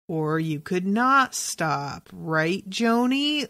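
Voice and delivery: slow, pointed retold irritation, rising at the end; irritated. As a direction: imitate an annoyed boss, drawn out with a rising tag question. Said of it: "Like, really irritated with her".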